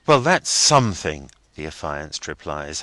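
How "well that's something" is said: half grumbling. A narrator's reading. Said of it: "half grumbling".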